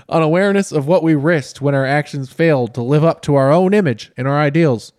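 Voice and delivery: lightly formal reading voice, a touch grand; reading a book aloud. Acted. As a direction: read it like a solemn memoir. Reads Obama's book aloud.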